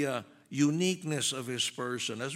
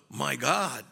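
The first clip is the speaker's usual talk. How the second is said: lightly imitated exclamation of surprise; mock surprise; 4 semitones lower than usual. Preacher mimicking the cults' reading of Thomas, mildly mock-surprised. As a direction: toss it off like an everyday exclamation. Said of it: "he was just surprised".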